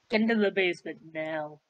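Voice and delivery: low, put-on commanding voice; mock stern command. Player ordering a friend into the basement, mock stern low voice. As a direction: order them down in a deep voice.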